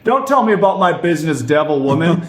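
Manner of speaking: put-on cranky old man. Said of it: "And he goes".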